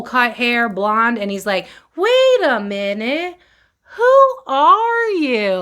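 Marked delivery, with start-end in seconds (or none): 1.9-5.5 put-on slow, much higher, rising kid voice; a stunned little boy squeaking out slowly; little boy meme. Reader imitating the meme boy, high and slow. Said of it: "that meme of that little boy who goes".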